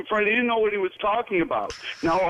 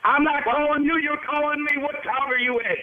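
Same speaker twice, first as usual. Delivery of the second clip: angry; 6 semitones higher than usual. Real, not acted. Dispatchers argue over phone.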